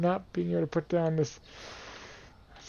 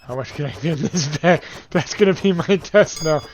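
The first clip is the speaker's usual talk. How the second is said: loud excited challenge; 2 semitones higher, 9 dB louder than usual. Real, not acted. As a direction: announce the test with gusto.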